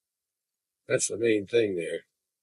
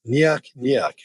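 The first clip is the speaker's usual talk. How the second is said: imitating Nyuk nyuk; 3 semitones higher than usual. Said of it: "he would literally say".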